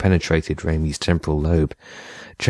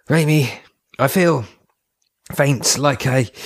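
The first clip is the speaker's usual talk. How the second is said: faint; 8 semitones higher, slower than usual. A narrator's reading. Pete feels faint.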